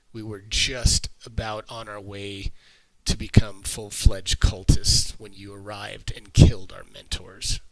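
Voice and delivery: lightly voiced cultist, resentful; captured cultist. Captive cultist answering his questioners, lightly voiced resentment.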